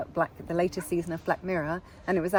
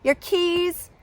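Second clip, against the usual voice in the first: high, loud, insistent mock American; bad American accent; 8 semitones higher, 8 dB louder than usual. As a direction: rattle off perks in hammed-up American. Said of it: "A very bad American accent".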